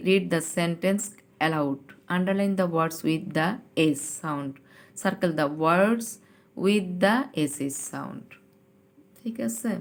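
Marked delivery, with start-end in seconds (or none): 0.1-8.3 slow, careful second reading of the instruction; slow teacher re-read; slow read-aloud again. Shown as a demonstration. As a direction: drag each word out for the class. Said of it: "ইনস্ট্রাকশনটা আবার একটু পড়ি".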